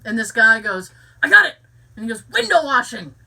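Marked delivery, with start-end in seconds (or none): 1.2-1.5 loud, high excited cry of discovery; excited shout. Retold or imitated. Game show contestant shouting his answer to the host, loud and excited. 2.3-3.1 imitating contestant. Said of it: "not as funny as he was doing it".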